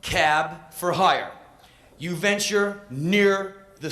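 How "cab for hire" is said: slow, drawn-out polite call for a cab; mock posh cab hail. Tourist hailing a cab in the rain, slow and polite. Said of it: "you go".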